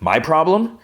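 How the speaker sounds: high-pitched, affronted echo; acted incredulous retort. John throws the challenge back.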